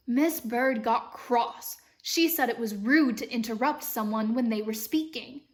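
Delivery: story reading with an imitated British lilt; American trying a British accent; amateur British accent. Shown as a demonstration. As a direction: read aloud in a patchy British accent. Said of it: "practicing reading this book in a British accent".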